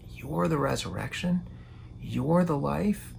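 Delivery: awed wonder. Retold or imitated. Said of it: "I can imagine she's just like".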